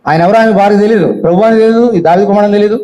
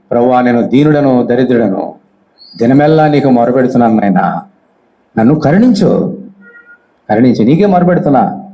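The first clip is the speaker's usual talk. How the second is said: lower, humble pleading to God; humble plea; 5 semitones lower than usual. Retold or imitated. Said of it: "చూడండి ఎంత humble". (వినయంగా ప్రార్థన)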